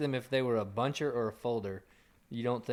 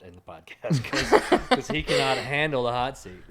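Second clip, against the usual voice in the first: loud, slowed mock announcement; mock announcer; 7 dB louder than usual. Co-host announcing to listeners that Joey lashes out, mock announcer. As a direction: announce it to the crowd, on the edge of laughing.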